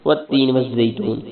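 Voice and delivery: والتین with doubled ت, والزیتون with firm ز; teacher's careful demo of والتین والزیتون; tajweed pronunciation. Shown as a demonstration. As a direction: stress the shadda on ت in والتین. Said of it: "واو کو تا کے ساتھ ملائیں گے".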